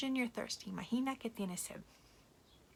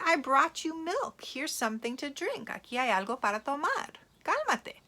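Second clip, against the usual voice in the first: frustrated grown-up; 5 semitones higher, 4 dB louder than usual. Acted. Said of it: "grown-up starts getting frustrated".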